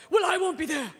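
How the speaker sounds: lightly voiced dismissive grande dame; a hint of a haughty aside; snooty Barbara Walters. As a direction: toss it off from out of frame. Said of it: "you hear Barbara Walters go".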